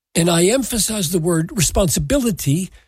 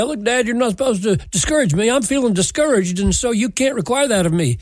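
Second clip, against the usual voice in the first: put-on quick, slightly raised child's protest; lightly voiced arguing child; 3 semitones higher, faster than usual. Child trying to blackmail dad out of obedience, lightly voiced protest. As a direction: lightly imitate a child arguing back, fast. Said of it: "children can't blackmail their parents".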